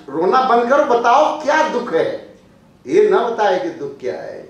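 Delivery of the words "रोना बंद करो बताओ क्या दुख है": urging to stop crying. Retold or imitated. Preacher urging crying woman.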